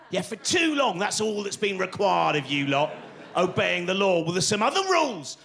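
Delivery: indignant, hammed-up political scolding; mocking paraphrase. Comedian parodies the prime minister scolding the public, mock indignant. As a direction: throw the speech back with sarcastic force.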